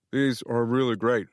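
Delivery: talking through a mouthful of cookie; mouth full. Acted. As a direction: speak around a bite. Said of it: "I said with my mouth full".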